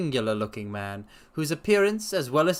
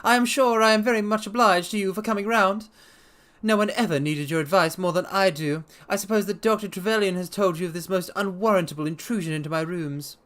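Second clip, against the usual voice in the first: agitated resident patient; 7 semitones higher than usual. Acted. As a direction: pour out the grievance, pitched up and pressed. Blessington complains to Holmes.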